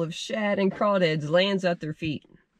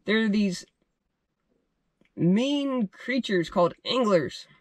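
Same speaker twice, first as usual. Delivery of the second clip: slow dramatic reveal; 3 semitones higher, slower than usual. Acted. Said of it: "I recompose a little bit".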